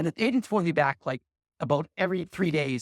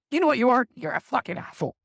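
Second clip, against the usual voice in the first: retold angry outburst; 7 semitones higher than usual. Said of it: "lighting into me like this".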